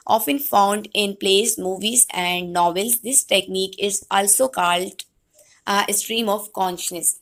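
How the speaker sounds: slow, measured lecture read-out; reading notes aloud. Real, not acted. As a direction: read it out slowly to the class. Reads out English definition. (ٹھہر ٹھہر کر نوٹس پڑھتے ہوئے)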